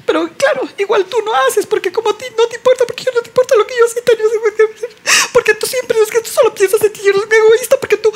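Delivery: high, fast whiny sobbing rant; fake-cry the accusations fast; hammed-up weepy tantrum; tearful whine.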